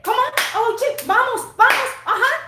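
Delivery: high, sing-song Spanish-accented coaching calls; hamming up a Spanish coach on court. Shown as a demonstration. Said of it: "I'm gonna start coaching that way now".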